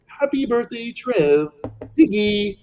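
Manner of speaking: Kermit the Frog voice. Pretend. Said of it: "sing it in Kermit the Frog voice".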